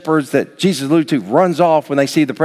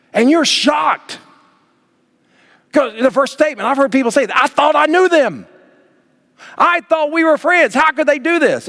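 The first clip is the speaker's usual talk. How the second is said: shocked disbelief; 13 semitones higher than usual. Acted. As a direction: play the stunned friend who was betrayed. Shocked friend voiced.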